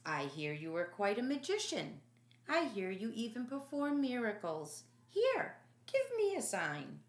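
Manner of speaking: slurred, taunting Herod, rising high at the end; drunk mocking king. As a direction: tease him like a drunk ruler. Herod mocks Jesus, drunk.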